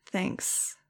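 soft, breathless embarrassed mutter. Acted. Max thanking Nudge for the compliment, soft mutter. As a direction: barely voice it, embarrassed. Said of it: "I muttered".

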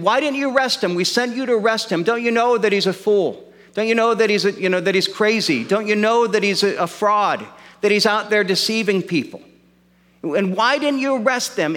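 lightly acted indignant demand; indignant priests. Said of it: "they're saying".

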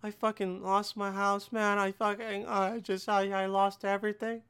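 a touch of hammed-up gloom; mock sad friend. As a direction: play the sad friend unloading their troubles. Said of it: "And you come up".

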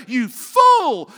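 loud, high "You fool"; shouted insult. Acted. Preacher shouting the insult at a brother. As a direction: yell it at the person.

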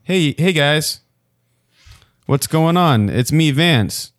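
reading as Vance. Retold or imitated. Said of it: "Vance says".

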